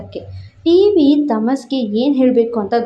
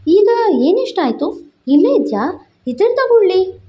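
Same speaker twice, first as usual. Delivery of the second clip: put-on higher, playful young woman's voice; girlfriend's voice; 9 semitones higher than usual. A narrator's reading. Girlfriend teasing the narrator, in a higher playful voice. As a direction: lift into her teasing voice.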